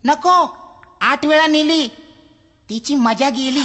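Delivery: high, whiny request; pleading customer. Acted. Customer begs the librarian, high and whiny. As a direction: wheedle for any book at all.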